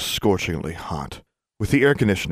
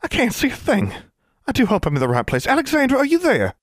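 put-on high, lilting Southern accent, quick; a flustered Southern belle calling out. A narrator's reading. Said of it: "A feminine voice with a lilting southern accent".

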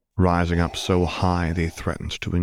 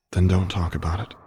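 usual speaking voice

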